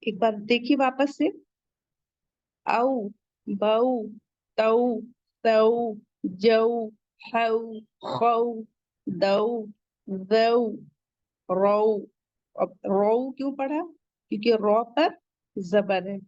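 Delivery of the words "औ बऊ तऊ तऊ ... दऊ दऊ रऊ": बऊ तऊ जऊ each glided softly, slow; soft leen recitation. Shown as a demonstration. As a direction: recite the drill slowly, gliding each औ. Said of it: "हम soft पढ़ेंगे लीन की वजह से". (धीरे धीरे नरमी से लीन पढ़ना)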